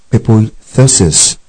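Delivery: "pepoithesis" said slowly as pe-poi-THE-sis, stress on the THE syllable; slow, careful Greek "pepoithesis", THE stressed; Greek pronunciation. Shown as a demonstration. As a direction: sound out "pepoithesis" with the accent on the e after the h. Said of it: "the E after H is accentuated".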